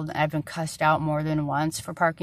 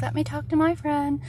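higher-pitched mock quote; mimicking; 8 semitones higher than usual. Retelling the postal worker's reply, higher mimicking voice. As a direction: imitate the worker in a raised voice.

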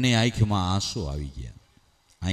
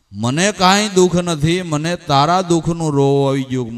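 higher, louder, disbelieving echo of her words; loud astonished son; incredulous repeat; 5 semitones higher, 5 dB louder than usual. Acted.

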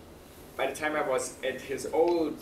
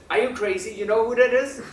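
higher, louder disbelieving question; incredulous coworker; 7 semitones higher, 8 dB louder than usual. Retold or imitated. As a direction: act amazed he doesn't know. Fellow chef scolds him, amazed.

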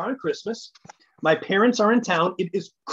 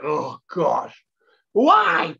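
exasperated cry; 3 semitones lower, 3 dB louder, much slower than usual. Retold or imitated. Self-reproach after hurting mom.

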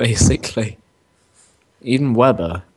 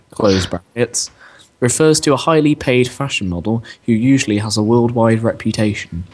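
reading aloud. Real, not acted. Reads out a definition.

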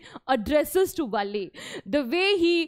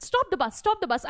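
put-on a mildly commanding little girl, a touch higher; 4 semitones higher than usual. Little Valli ordering the bus to halt, commanding. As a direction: order the bus to stop like a small boss. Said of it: "And it was commandingly".

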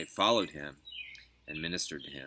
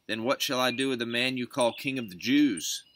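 higher, emphatic formal question; raised-pitch rhetorical asking; 7 semitones higher, 7 dB louder than usual. A narrator's reading. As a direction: put the question to a crowd. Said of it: "Pilate again said to them".

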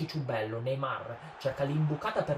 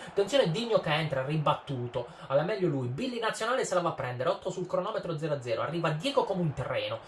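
excited commentary; 4 semitones higher than usual. Real, not acted. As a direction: lift the voice as the attack builds. Rising play-by-play attack.

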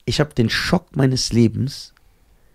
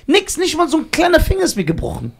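amazed; 10 semitones higher than usual. Real, not acted. Marvelling at no injuries.

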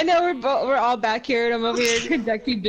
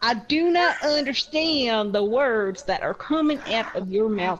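lightly acted haughty bafflement; in-character offended customer, measured delivery; indignant customer. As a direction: enunciate each word in mild mock indignation.

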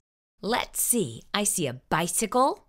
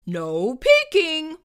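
slow, higher scolding; 5 semitones higher, 4 dB louder, slower than usual. Acted. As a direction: warn him off, slowly. Scolding line from book.

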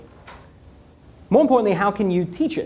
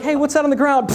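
playful shout; 7 semitones higher than usual. Retold or imitated. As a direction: shout to trick a friend. Pranking friends during launch.

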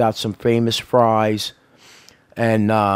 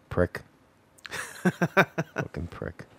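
whispered curse; 2 semitones higher, 12 dB quieter than usual. Real, not acted. Under breath.

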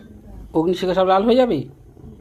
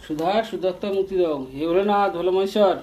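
chanted prayer in a raised, steady voice; loud invocation. Real, not acted. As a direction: call on the gods aloud. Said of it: "জোরে জোরে?". (উঁচু গলায় মন্ত্রের মতো প্রার্থনা)

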